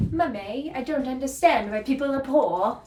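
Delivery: put-on light posh British child voice; a spoilt little Victorian girl in a British accent. Vlogger playing a Victorian girl, lightly voiced British accent. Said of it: "why I had a British accent there".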